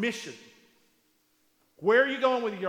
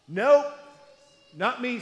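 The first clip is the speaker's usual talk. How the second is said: flustered denial; 2 semitones higher, 8 dB louder, slower than usual. Acted. Peter denies in panic.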